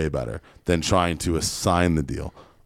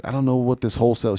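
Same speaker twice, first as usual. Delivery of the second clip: put-on higher, fast flustered old lady; confused old lady; 5 semitones higher, faster than usual. Seventy-year-old seller calling the narrator, flustered old lady. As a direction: sound lost and worried. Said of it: "she's, like, seventy years old".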